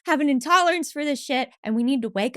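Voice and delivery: laughing while playing a crusader for anger; mock crusader. Mock crusader preaching to society about anger, high and laughing. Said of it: "I'm like".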